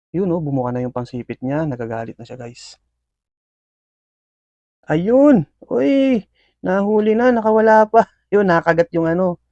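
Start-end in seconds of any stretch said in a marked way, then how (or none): 4.9-9.4 sudden high, loud excited cry; excited shout. Real, not acted. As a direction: burst out as the catch happens. Scorpion grabs the cricket. (biglang sigaw sa tuwa)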